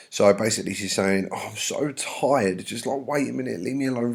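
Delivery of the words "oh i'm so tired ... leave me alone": mock weariness. Nurse putting off Juliet, mock weary. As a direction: drag it out as if worn out.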